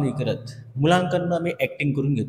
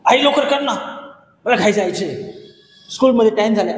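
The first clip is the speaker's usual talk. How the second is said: impatient demand; 3 semitones higher than usual. Shown as a demonstration. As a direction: push her to hurry up, irritated. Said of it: "असं म्हणा तुम्ही".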